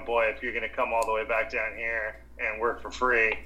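a hint of a Texan boss; Texas accent. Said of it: "the Texas a-, a-, accent justice".

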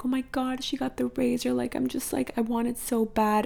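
retold wistful whine to mom, lightly acted; envious longing. Daughter telling mom what her friend got, mildly envious. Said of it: "a tone in my voice where I was kind of, I was more upset".

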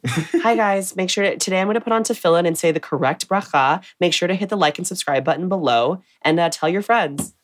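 high, bubbly vlogger intro; chirpy like and subscribe host; YouTube vlogger voice. Retold or imitated. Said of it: "impression of a beauty vlogger".

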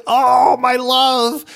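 high, hammed-up old witch voice; mock lovesick witch cooing; crone witch. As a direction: coo like a lovesick hag. Hag witch voice in retelling.

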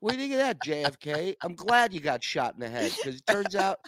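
high, loud furious rant at the airport; angry outburst. Retold or imitated. Traveler cursing out JFK airport, high loud mock rage. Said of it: "And I'm like".

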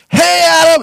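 loud, high call across a crowd; shouting a friendly greeting from afar. Retold or imitated. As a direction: call his name out big and bright. Shane calling out to him.

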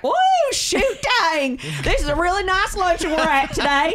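mock your own Southern talk, big and high; exaggerated Southern accent. Host imitating how Southerners sound to a Brit, exaggerated Southern accent. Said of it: "the way he heard us talk was like".

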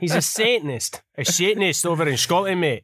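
mock Scottish accent; hammed-up Scottish, leaning on the word Satanist. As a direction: put on a jokey Scottish accent with slushy S sounds. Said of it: "are we allowed to do Scottish accents".

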